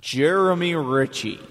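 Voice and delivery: stretched-out name as if echoing. Pretend. Friend saying the roommate's name on request, mock echo voice. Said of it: "put echo in his voice and say his name".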